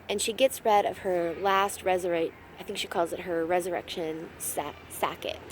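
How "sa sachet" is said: trips over sacket, unsure how to say it; hesitant fumble on "sacket" said as sack-it; stumbling on sachet. Real, not acted. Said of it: "I cannot even say that".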